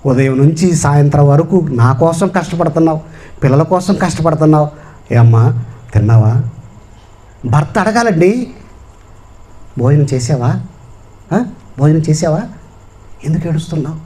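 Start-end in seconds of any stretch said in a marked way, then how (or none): 0.1-6.3 mildly consoling husband, dropping low at the end; ఆదరణ. Acted. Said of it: "ఆదరణండి". 9.8-14.0 lightly acted caring husband, softening at the end; ఆదరణ. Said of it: "ఆదరణండి".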